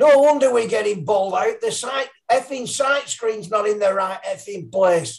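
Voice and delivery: play-acted, fed-up, indignant shout at top of voice, high. Telling a cricket story, the speaker retells a batsman's shout at the top of his voice. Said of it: "shouts at the top of his voice".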